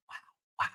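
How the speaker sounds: brief mock wail; imitated crying. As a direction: fake a little sob. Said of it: "like, crying. She's like".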